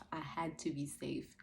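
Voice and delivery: said slowly and firmly, voiced. Real, not acted. Mother repeats to viewers that she had to be safe, slow and firm.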